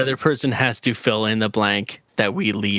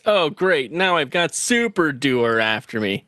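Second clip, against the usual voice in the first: whiny voice; slower than usual. Retold or imitated. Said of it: "says in a whiny voice".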